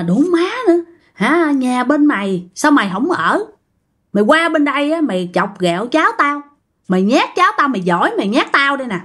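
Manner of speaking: mock scolding with pitch jumps; retold tirade, sharp rises without much volume; cursing grandmother. Grandmother cursing the unseen ghost for scaring her grandchild, acted scolding. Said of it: "bà ngoại mới chửi".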